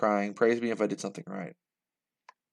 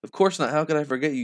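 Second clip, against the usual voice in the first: higher, lightly voiced motherly reply; put-on higher dialogue voice; distinct character voice; 4 semitones higher, faster than usual. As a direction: lift the voice to set this character apart. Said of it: "It kinda sounds confusing".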